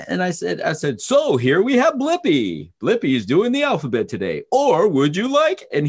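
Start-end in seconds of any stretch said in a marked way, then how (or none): 1.0-5.6 Vanna White. Pretend. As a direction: present the menu like a TV hostess to a giggling son. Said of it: "like I was Vanna White".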